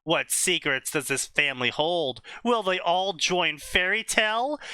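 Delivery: dramatic trailer-style blurb read; reading a story blurb. Acted. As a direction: announce it like a book blurb. Reads out a fanfic blurb.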